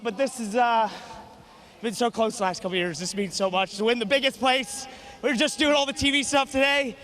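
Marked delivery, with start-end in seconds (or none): 5.2-7.0 excited shouting. Real, not acted. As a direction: yell it to the whole crowd. Winner yelling thanks to fans.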